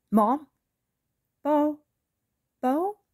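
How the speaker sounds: high, loud, frantic calls; panicked calling. Acted. Mother calling for her daughter, loud and panicked. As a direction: call out in alarm over the phone.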